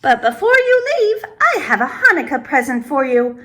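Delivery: put-on chuckling old woman voice; old woman giggling about a gift; laughing. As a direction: laugh through the surprise. Laugh heard.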